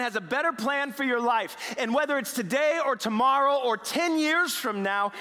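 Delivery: slow, emphatic start, building; preaching with force. Retold or imitated. Edgar telling upset Mary of God's plan, fervent. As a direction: proclaim it with mounting conviction.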